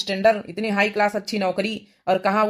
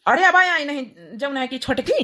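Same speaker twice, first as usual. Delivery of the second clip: scolding village husband; 6 semitones higher than usual. Acted. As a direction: berate the late wife in dialect. Husband scolds wife late home.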